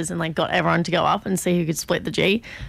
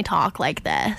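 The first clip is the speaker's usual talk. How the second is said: slow, put-on American accent; mock American accent; 3 semitones lower, much slower than usual. Friend who prefers Brits showing what annoys her, slow mock American accent. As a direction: drag it out in an imitated American accent. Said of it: "the American accent".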